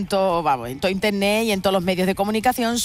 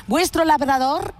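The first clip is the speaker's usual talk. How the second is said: slow mock Italian accent, pitched up; acento italiano; 4 semitones higher, slower than usual. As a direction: draw it out like an Italian mayor. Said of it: "tiene con el acento italiano". (acento italiano imitado, lento y agudo)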